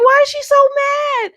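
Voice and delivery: put-on high, puzzled little-girl voice; bewildered kid. Child puzzling over grandma's anger, in a high bewildered voice. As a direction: wonder aloud like a confused child. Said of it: "And I'm looking like".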